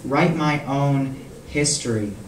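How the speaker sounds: measured poem recital with long pauses; poetry reading. Acted. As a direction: recite in deliberate phrases, letting each line fall. Reads own poem aloud.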